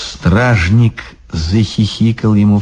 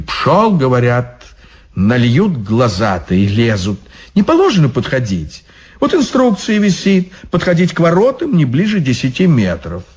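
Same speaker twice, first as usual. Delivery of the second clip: fast, pitched-up rule citing; officious devil guard; 4 semitones higher than usual. Acted. Devil guard lecturing the monk on rules. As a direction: point at the posted rules.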